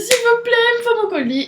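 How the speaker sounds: polite pleading request. Retold or imitated. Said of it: "Et je dis".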